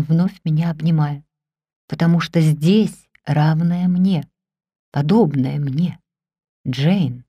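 low and earnest, proposing; lightly voiced Rochester. A narrator's reading.

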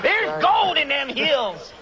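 slow hammed-up prospector; old prospector voice. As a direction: drawl it like an old miner. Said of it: "part Cosby and part old prospector".

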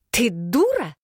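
high shrieking insult. Acted. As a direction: squeal it out, high and outraged. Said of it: "взвизгнула принцесса".

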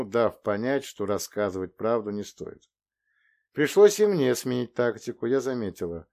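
usual speaking voice

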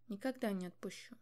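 plain reading voice

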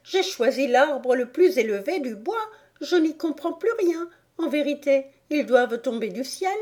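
high, tearful complaint; hammed-up plaintive bird voice; lamenting pigeon. A narrator's reading. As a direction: wail in baffled despair.

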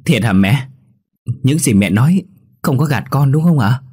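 can't quite believe the good news, pushing for it; eager pressing question. A narrator's reading. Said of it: "nên bèn gặng hỏi lại".

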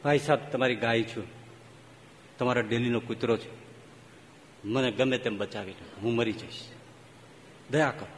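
a lightly voiced snake pleading low and soft; pained snake plea. Snake in pain begging the man to save it, low and soft. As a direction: beg in pain, quietly. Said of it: "સાપ પીડ્યો પીડ્યો કહે છે".

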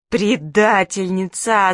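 slow, tearful drawn-out accusation; crying. Acted. Manka cries at the friend who told on her. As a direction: drag it out through tears. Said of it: "заплакала Манька".

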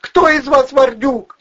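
high falsetto screech, loud and slow; falsetto yelling. A narrator's reading. Furious blonde berating Valeriy and Vovchik, high falsetto screaming. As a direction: scream insults in a shrill woman's falsetto.

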